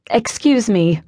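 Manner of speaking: firm, polite librarian correcting a patron; best librarian tone. Acted. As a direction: librarian stopping a careless reader. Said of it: "in what I hoped was my best librarian tone".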